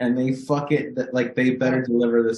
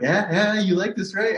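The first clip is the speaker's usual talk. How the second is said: high-pitched imitation of an eager wife; mock excitement, checking he likes it; excited wife; 5 semitones higher than usual. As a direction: nudge for agreement, pitched up. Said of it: "she'll get excited thinking".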